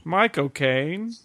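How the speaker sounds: slow, drawn-out Cockney star imitation; exaggerated slow Cockney mimicry; Michael Caine. Shown as a demonstration. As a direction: stretch each syllable like a London film star. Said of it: "say the word Michael Caine in a Michael Caine voice".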